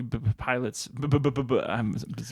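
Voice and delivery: lightly mimicked stutter on the b's; stuttering man. Recalling the stuttering pilot's line, mock stuttering. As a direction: trip over repeated first sounds, imitating a stutterer. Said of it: "The stuttering man".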